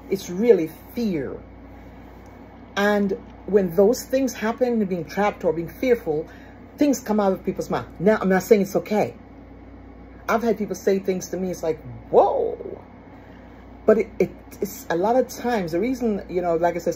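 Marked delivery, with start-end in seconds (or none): 0.1-1.4 really fear said slowly, leaning on really; slow emphatic repeat. Shown as a demonstration. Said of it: "but it's really fear". 12.1-12.8 a breathy startled whoa, taken aback; mock shocked whoa. Reacting to hurtful words said.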